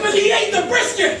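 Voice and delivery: mock outrage, pleading my case; indignant outburst. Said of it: "I'm like".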